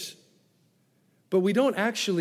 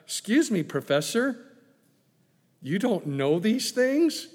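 gentle teasing; 3 semitones higher, 3 dB louder than usual. Acted. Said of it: "Jesus is gently teasing him".

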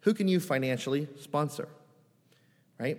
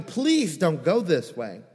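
pleading shout; 2 semitones higher, 5 dB louder, slower than usual. Retold or imitated.

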